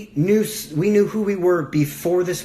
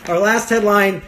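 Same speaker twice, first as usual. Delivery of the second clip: laughing restart; 4 semitones higher, 4 dB louder than usual. Real, not acted. Laughs, repeats the announcement more normally.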